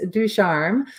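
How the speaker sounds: Ducharme said slowly as doo-SHARM, French style; correct surname pronunciation. Shown as a demonstration. Guest correcting the host on her surname, slow and careful. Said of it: "And you were close".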